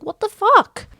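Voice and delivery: high shocked squeak, a cut-off disbelief; shocked squeal. Retold or imitated. Cookie seeing Stone again after three years, high shocked squeal. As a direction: let it jump up in pure disbelief. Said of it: "And Cookie's like".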